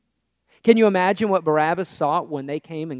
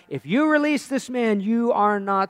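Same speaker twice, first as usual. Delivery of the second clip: mildly raised protest; crying out; 4 semitones higher than usual. Acted. Crowd pressures Pilate over releasing the prisoner, crying out. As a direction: lift the pitch into a warning cry. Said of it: "the Jews cried out".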